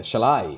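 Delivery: "shall I" with the weight on I; light "shall", then land on "I"; stress on I. Shown as a demonstration. Teacher marking the first iamb, "shall I" stressed on I. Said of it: "I पे stressed है".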